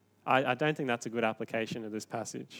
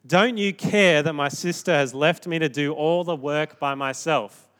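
complaining sister; 2 semitones higher, 6 dB louder than usual. Retold or imitated. Martha complaining to Jesus.

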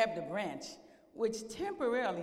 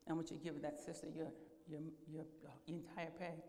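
the Lord; 6 semitones lower, 13 dB quieter than usual. Retold or imitated. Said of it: "and the Lord said".

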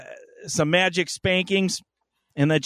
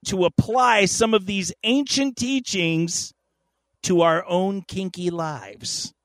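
dramatic storyteller voice; 3 semitones higher, 4 dB louder than usual. Acted. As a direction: tell it like an old legend. Grand segment narration.

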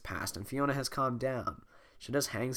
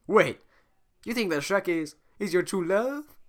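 high, loud disbelief; surprised; 8 semitones higher, 7 dB louder than usual. Acted. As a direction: gasp out the question. Surprised at Shrek.

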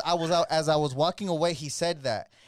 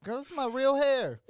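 indignant; 10 semitones higher than usual. Retold or imitated. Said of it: "I'm like".

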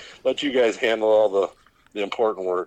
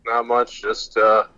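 phone call sound; on speakerphone. Real, not acted. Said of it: "That's why I sounded like speakerphone".

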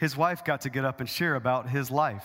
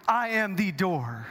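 slow, raised, emphatic declaration; 4 semitones higher, slower than usual. Acted. Jesus declaring he is the door, emphatic. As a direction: state it deliberately, each word weighted, "the" said as "thee". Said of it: "he's saying emphatically".

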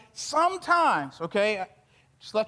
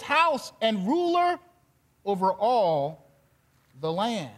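measured, earnest Bible reading; scripture reading. Acted. Preacher reading Joseph's words to his brothers, measured and earnest. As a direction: read the passage to the congregation with weight. Reads scripture passage aloud.

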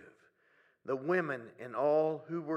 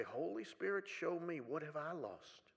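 soft prayer. Pretend. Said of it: "have the courage to say".

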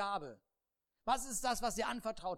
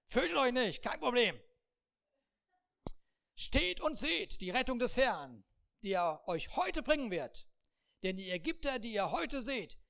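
loud, raised leader's proclamation; Moses proclaiming; 2 semitones higher, 4 dB louder than usual. Acted. Moses loudly assures the frightened people. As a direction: announce rescue with authority.

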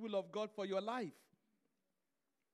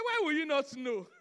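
incredulous question through a laugh; laughing at the absurd question; laughing mock question; 5 dB louder than usual. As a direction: ask it half laughing in disbelief. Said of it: "I say".

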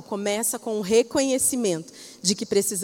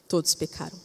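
"Todos pecaram" repeated softer, dropping to a hush; softer solemn echo of "Todos pecaram"; 7 semitones lower, 7 dB quieter than usual. Shown as a demonstration. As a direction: let the repeat of "Todos pecaram" fall quiet.

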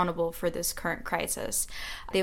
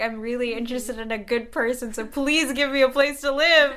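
high pleading phone voice, building louder; voice pitched up; 5 semitones higher, 6 dB louder than usual. Retold or imitated. Student begging strangers for a place to live, voice pitched up. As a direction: plead up high, getting louder toward the end. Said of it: "a few octaves just to be like".

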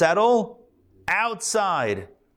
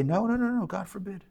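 protesting tribes; 6 semitones higher, 7 dB quieter than usual. Retold or imitated. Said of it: "And they say".

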